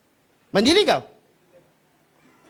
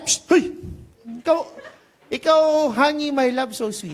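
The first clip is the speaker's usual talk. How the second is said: flirty sweet talk; 2 semitones higher than usual. Retold or imitated. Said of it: "Sabi niya".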